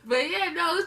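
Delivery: loud burst of laughter; laughing through the words. Real, not acted. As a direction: crack up at your own joke. Laughing at her own joke.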